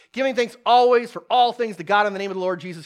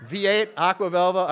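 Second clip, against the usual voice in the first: laughing; 3 dB louder than usual. Real, not acted. Joking about old commercials.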